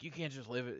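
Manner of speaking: a touch of a scolding mom; mad mom. Retold or imitated. Mother fed up with jobless daughter, mildly mock-angry. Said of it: "her mom got all mad".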